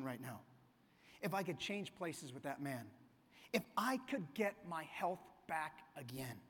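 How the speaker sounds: low, soft, raspy dying man. Retold or imitated. Dying millionaire telling his nurse his wish, in a low soft rasp. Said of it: "in a raspy voice".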